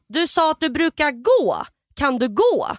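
slow, insistent imitated nurse; deliberate, pointed questioning; nurse pressing. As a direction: spell it out to a confused patient. Imitates nurse pressing patient slowly.

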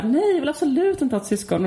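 half-voiced protest of a shrieking kid; retold child's shriek. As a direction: mildly imitate a little girl's screamed refusal. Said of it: "då bara skrek hon så här".

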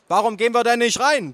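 high-pitched holler into an ear; bellowing aunt. A narrator's reading. Aunt impatient to go inside, bellowing. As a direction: yell it right into his ear. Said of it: "brüllte meine Tante ins Ohr".

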